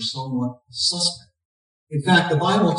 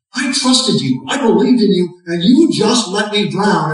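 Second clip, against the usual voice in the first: raised, higher indignant complaint; angry confrontation; 5 semitones higher, 5 dB louder than usual. Retold or imitated. Drowned man confronting God in heaven, raised angry voice. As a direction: accuse God of letting him drown. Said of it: "he angrily confronts God".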